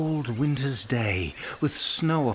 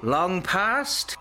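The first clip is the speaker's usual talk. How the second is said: put-on higher, curious old man; inquiring; 7 semitones higher than usual. A narrator's reading. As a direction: ask with a squint at its size. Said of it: "inquired Scrooge".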